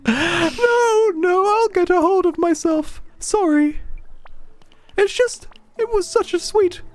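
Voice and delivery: very high, weepy put-on girl voice; Claire, tearful. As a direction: play a girl trying to pull herself together through tears. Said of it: "And now I can't stop".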